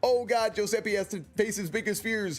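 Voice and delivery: high, loud hammed-up panic; mock panic. Streamer voicing Giuseppe's fake terror at a chatter, loud and high. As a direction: play the frightened wreck for laughs.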